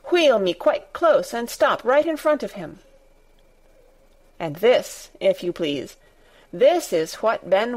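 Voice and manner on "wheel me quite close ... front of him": commanding. Acted. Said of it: "he commanded".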